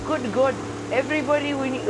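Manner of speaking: high, loud flustered teacher voice; a frazzled teacher shrieking at the class; hammed-up high teacher voice; Miss Morelli impression. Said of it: "the Miss Morelli voice?".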